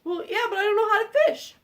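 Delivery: lightly voiced troll owning up; helpless troll. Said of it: "said the troll".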